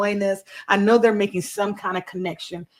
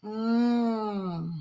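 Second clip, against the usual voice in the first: mouth full; 2 semitones higher, 5 dB quieter than usual. Real, not acted. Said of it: "I'm just chewing".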